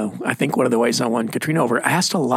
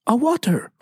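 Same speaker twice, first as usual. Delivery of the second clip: higher, lightly imitated Scottish "a water"; Scottish accent; 10 semitones higher than usual. Wife repeats her order to the waiter in a Scottish accent. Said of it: "Mesquite, Texas".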